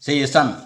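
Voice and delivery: सेशन with a palatal sibilant in the last syllable. Shown as a demonstration. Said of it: "तालंब स्व के साथ करेंगे".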